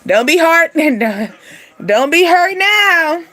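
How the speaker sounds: laughing tease. Real, not acted. Teasing someone heartbroken, laughing.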